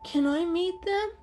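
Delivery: high, sudden squeak. A narrator's reading. Kitten blurting from the carrier, squeaky and high. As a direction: pop up eager and tiny. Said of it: "Kitten suddenly squeaked".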